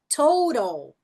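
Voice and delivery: "Total" with a drawn-out ou; careful English demo; long O. Shown as a demonstration. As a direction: stretch "Total" into an ou glide. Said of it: "Som longo da letra O".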